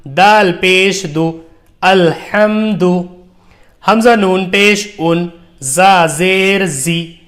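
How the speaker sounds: slow, measured recitation with long-held letter names; drawn-out teaching recitation; Qaida spelling drill. Shown as a demonstration. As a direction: spell it out deliberately for beginners to repeat.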